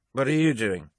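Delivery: put-on cultured lady, quite drunk; drunk woman. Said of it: "clearly drunk female voice".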